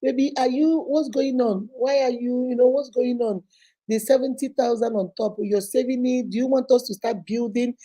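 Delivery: calm, open-ended questioning of a husband; even, unforced enquiry; non-accusing. Shown as a demonstration. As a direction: ask gently, as if simply curious. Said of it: "Don't go accusing him".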